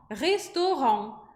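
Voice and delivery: "restaurant" ending in a quick nasal on; "restaurant" with a fast on. Shown as a demonstration. Teacher says "restaurant" with a quick on at the end. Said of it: "falando esse on rapidinho".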